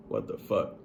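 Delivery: breathless whispered shock; stunned whisper. Retold or imitated. Hearing others broke down too, a stunned whisper.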